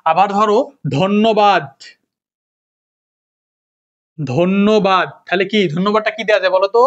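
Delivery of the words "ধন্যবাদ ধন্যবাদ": ধন্যবাদ slowly as "dhon-no-bad"; doubled n. Shown as a demonstration. Teacher giving the next example, ধন্যবাদ slow with doubled n. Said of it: "দ্বিত্ব উচ্চারণ হচ্ছে".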